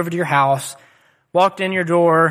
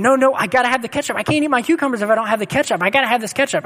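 put-on higher, fast, a little girl insisting; whiny demanding child; 6 semitones higher, faster than usual. Daughter freaking out over ketchup at dinner, higher, fast and whiny. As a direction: play a small daughter fussing, lightly voiced. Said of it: "And she said".

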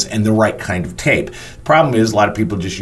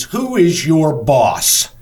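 slow, higher-pitched imitated demand; half-yell it, stretching every word; mock yell; 5 semitones higher, much slower than usual. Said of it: "she yells out".

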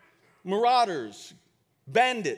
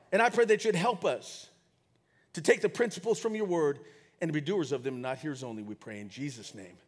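prayer; 3 semitones lower than usual. Real, not acted. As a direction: pray to God, tapering to a hushed close. Prays aloud to God.

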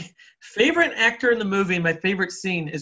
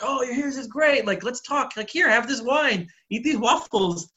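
higher-pitched, eagerly welcoming quote; eager welcome; 6 semitones higher than usual. Retold or imitated. Waiter sits down to talk with his date, eager welcome. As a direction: imitate an eager host, pitched up.

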